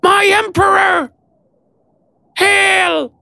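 very high, slow squeaky shout of elation; elated rat creature. A narrator's reading. Rat-like Maud greeting her emperor, squealing high with elation. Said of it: "look of elation and wonder".

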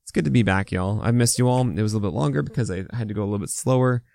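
talking through a swollen mouth; slightly careful speech, swollen mouth. Real, not acted. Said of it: "my mouth is swollen".

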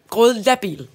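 "grådlabil" as one word ending in -bil; intended word. Shown as a demonstration. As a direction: say "grådlabil" with gråd, not grål. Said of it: "Det betyder grådhabil".

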